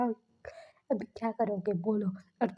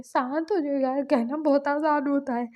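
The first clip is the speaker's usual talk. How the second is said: tearful complaint; 4 semitones higher, 3 dB louder than usual. Retold or imitated. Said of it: "बोल के वो रो रहा था फिर".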